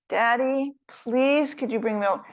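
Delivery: lightly voiced small boy begging his dad; a boy calling downstairs for milk; pleading child.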